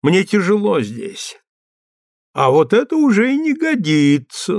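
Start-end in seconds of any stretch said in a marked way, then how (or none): 2.3-4.6 lecturing, raised and firm; preachy. A narrator's reading. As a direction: admonish him like a priest. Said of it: "наставительно сказал поп".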